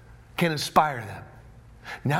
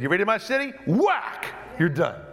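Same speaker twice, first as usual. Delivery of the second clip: mock angry David; 4 semitones higher than usual.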